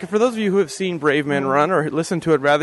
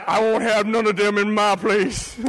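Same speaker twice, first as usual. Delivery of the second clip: mock bigot; 3 semitones higher than usual. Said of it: "Paul Fisher's like".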